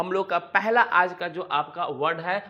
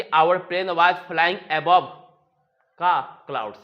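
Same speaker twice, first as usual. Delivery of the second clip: very slow, word by word; slow dictation; 5 dB louder, much slower than usual. Shown as a demonstration. Teacher modelling an English sentence, very slow. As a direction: spell the sentence out slowly for learners. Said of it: "तो बोला जाए कि".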